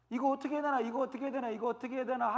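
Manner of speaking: anxious, repetitive chant; mock fretting. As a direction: fret aloud in a run-on loop. Elders fretting under Ammon's attack.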